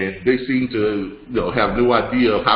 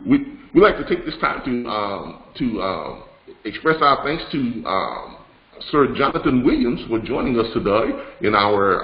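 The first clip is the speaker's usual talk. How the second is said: a badly faked, faintly put-on British accent; poor British accent; 3 semitones lower than usual. Host thanking Sir Jonathan on the broadcast, poor mock British accent. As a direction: attempt a formal British thank-you, lightly and haltingly. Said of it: "that was a piss poor British accent".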